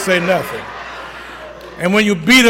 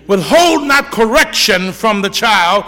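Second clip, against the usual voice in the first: preaching scripture. Acted. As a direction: proclaim each word slowly to the congregation. Reading scripture.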